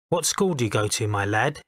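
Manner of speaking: put-on a light touch of a posh Eton accent; lightly voiced Etonian MP, kindly but lofty. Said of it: "in an Eton accent".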